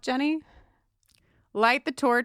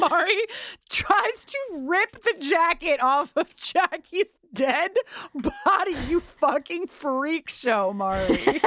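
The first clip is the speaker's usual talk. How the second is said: laughing; 8 semitones higher, 3 dB louder, slower than usual. Real, not acted. Outraged laughing at Mari.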